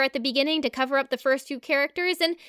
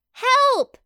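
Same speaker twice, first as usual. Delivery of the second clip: pleading cry; 8 semitones higher, 5 dB louder than usual. Acted.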